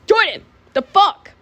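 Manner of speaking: high, sharp scolding outburst; mock-outraged call-out; outraged exclamation. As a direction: exclaim in acted shock, pitch jumping up. Teacher reacting to chair prank.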